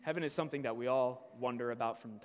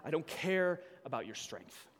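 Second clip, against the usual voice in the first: rising, louder and higher complaint to God; angry prayer; 5 semitones higher, 7 dB louder than usual. Acted. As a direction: vent at God, building to near shouting. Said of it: "We often want to say".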